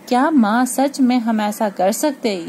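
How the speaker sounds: भाव: उत्साह से पूछना; excited disbelief. Acted. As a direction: ask with thrilled disbelief. Translating the child's excitement.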